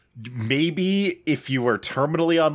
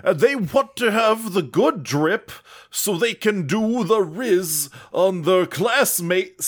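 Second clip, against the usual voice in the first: put-on old man voice; 4 semitones higher than usual. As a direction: grumble like an old man shaking his fist. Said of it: "Old man, take the stage".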